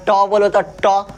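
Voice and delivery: ट said slowly, tongue curled back; slow, deliberate ट; slow demo. Shown as a demonstration. Teacher showing how ट is said. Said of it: "अब ट".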